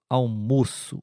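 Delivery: almoço with a closed o. Shown as a demonstration. Teacher shows the closed o in almoço. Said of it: "um pouquinho mais fechado".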